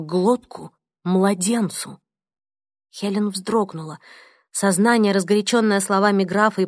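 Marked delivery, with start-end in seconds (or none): none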